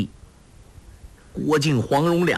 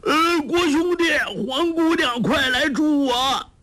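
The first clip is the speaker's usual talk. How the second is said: desperate shout for help. A narrator's reading. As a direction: yell to friends hiding nearby. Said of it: "周伯通大叫".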